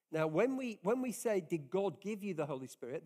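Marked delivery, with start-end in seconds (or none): 1.4-3.0 "God" slightly lifted and leaned on, rising at the end; stress on God. Shown as a demonstration. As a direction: lean on the word "God". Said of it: "the emphasis is on God doing it".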